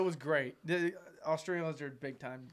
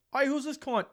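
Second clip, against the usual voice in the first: imitated Australian; 10 semitones higher, 4 dB louder than usual. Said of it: "a roommate in college that was Australian".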